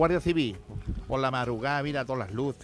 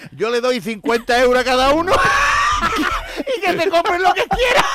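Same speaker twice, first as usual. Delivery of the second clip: shouting through laughter, louder and higher; laughing shout; 13 semitones higher, 9 dB louder than usual. Retold or imitated. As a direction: belt it out while cracking up. Grandfather's cheeky answer, laughing.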